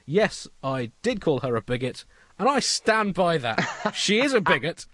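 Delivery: rising to a loud, laughing rally speech; hammed-up political rallying cry; a defiant prime minister owning the insult, loud and proud; mock defiant Brown speech. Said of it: "He should have said".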